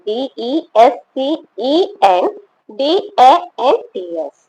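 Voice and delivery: letter by letter, with short pauses between groups; spelling out. Shown as a demonstration. Teacher spelling the answer for students, letter by letter. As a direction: spell it out distinctly for a class.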